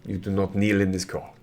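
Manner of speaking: lightly voiced French prince, formal; courtly prince with a French accent. Plays the French-speaking prince.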